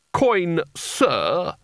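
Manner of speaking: a mild snapped correction. Acted. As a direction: snap at the boy's manners. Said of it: "snapped Spelter".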